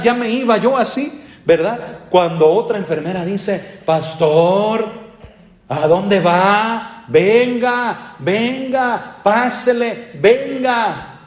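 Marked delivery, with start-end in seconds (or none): 3.9-11.2 imitating a nurse calling out in a higher voice; high mock nurse voice urging the pastor to pray; nurse's little voice. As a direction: mimic a nurse urging the pastor back, pitched up. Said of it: "así con esa vocecita".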